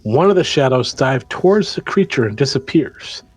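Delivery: measured storytelling read; game master narration. Acted. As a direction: set the scene for the players. Game master tells the scene.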